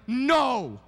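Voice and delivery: loud, high burst of alarm; mock cry of no. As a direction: yelp it to stop the kid talking. Parent stopping child in story.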